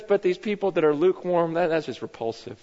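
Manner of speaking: fading to a low, soft, revolted hush; quiet disgust. Retold or imitated. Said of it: "He goes".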